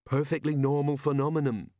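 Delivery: mildly scornful sceptic's voice; sneering. A narrator's reading. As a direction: dismiss it with a put-on sneer. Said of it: "sneered Red Shoe".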